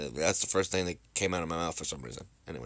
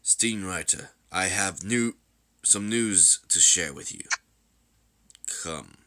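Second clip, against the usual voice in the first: measured, stately announcement; grave, deliberate emperor; solemn ruler; slower than usual. Acted. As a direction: address the troops as their ruler, unhurried.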